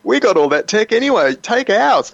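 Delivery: brushing off worries with the Chinese premier, a light mock casual voice; Netanyahu. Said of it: "shaking the Chinese premier's hand and saying".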